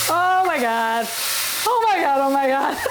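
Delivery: overwhelmed and giddy; shrieking jackpot winner. Real, not acted. Overwhelmed by chili fumes.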